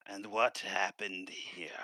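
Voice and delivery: slow, sighing noble stepping out; lightly acted, drawn-out question after a sigh; Conbrook. Conbrook steps out to question the guards, slow and weary-sounding. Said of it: "At this point, Conbrook does step out".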